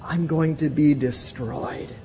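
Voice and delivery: high, pleading voice of a doomed man; despairing confession. Retold or imitated. Preacher voices Isaiah's fear before God, high pleading despair. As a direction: plead your unworthiness, fading at the end. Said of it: "He's saying".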